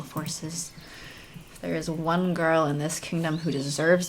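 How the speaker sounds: earnest young heroine, lightly voiced. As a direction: read it as the game's heroine. Reads heroine's lines in game.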